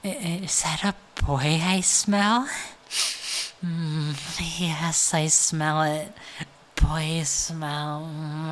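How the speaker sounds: put-on slow, breathy-close monster girl ASMR read; ASMR roleplay reading. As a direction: savour each word like a hungry monster girl. Reads copypasta as ASMR roleplay.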